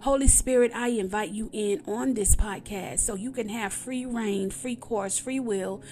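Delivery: earnest spoken prayer to God. Acted. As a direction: pray it sincerely. Opening prayer on podcast.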